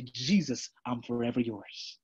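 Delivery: soft, low devoted vow to Jesus; quiet vow. Pretend. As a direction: whisper a promise of devotion to Jesus. Voicing a believer's quiet vow.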